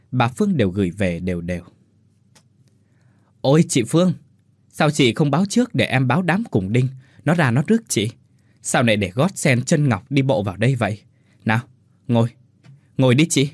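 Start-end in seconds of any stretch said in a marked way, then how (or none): 3.4-13.5 butter up the rich guest; fawning welcome. Acted. Hostess fawning over her wealthy sworn sister, gushing.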